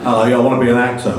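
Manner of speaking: a quick, laughing mock London accent of his younger self; bad London accent. Actor mocking his boyhood London accent, laughing. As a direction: toss off a rough London accent, half laughing. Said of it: "I do a sort of rather bad impersonation".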